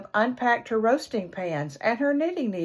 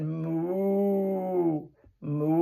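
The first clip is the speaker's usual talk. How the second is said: cow moo; 3 semitones lower, 4 dB quieter than usual. Acted. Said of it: "The big bossy cow said".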